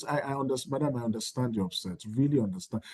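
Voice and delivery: soft, soothing understanding; unraised voice. Shown as a demonstration. School leader soothing an upset parent, voice kept soft. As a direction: drop the volume and reassure gently. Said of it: "You can never see them raise their voice".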